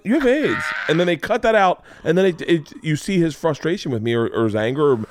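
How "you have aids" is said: mock blurting. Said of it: "I go".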